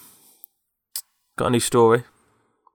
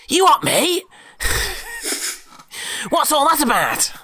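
angry bloke. Retold or imitated. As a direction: squeal it out like a furious bloke in the queue. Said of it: "we hear a bloke going".

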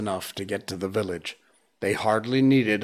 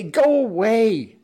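high, loud angry mob cries; shrill mob yelling stones at the boy; villagers shouting; 12 semitones higher, 6 dB louder, slower than usual. Acted. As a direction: yell them out like a furious crowd. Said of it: "the villagers shouted".

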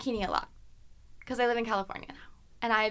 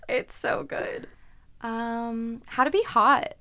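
ordinary talk, nothing marked

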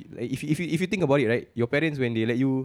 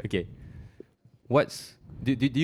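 heavy nose breathing; 3 dB quieter than usual. Real, not acted. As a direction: talk with heavy breaths on the mic. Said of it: "Stop breathing into the mic".

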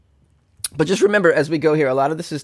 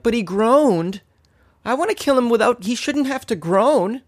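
whiny mock voice; 9 semitones higher than usual. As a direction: whine it like a fussy complainer. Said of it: "But then they're like".

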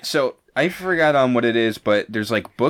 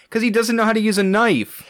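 much higher-pitched mom voice; imitated mom; 10 semitones higher than usual. Speaker retelling mom's serial killer verdict, high imitated mom voice. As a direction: quote mom in a raised, high voice. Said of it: "'Cause she's like".

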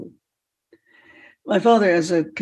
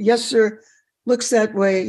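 slightly raised, polite reply; young self answering; 3 semitones higher than usual. Retold or imitated. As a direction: answer an elder as a teenager. Retold young self answering old man.

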